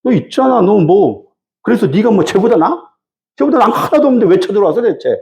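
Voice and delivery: mock-dismissive retort, half-acted; scornful taunt. Jephthah brushing off the Ammonite king, mildly scornful. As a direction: brush off the enemy king as beneath notice. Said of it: "막 무시하는 거예요".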